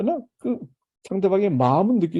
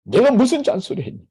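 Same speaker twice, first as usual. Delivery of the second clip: defensive mom; 6 semitones higher, 4 dB louder than usual. Retold or imitated. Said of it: "엄마도 어떻게 반응해".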